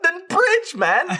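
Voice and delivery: exasperated cry. Retold or imitated. Complaining to online teammates, high exasperated cry. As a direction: wail it in disbelief. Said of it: "I was like".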